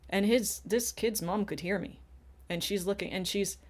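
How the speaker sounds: ordinary talk, nothing marked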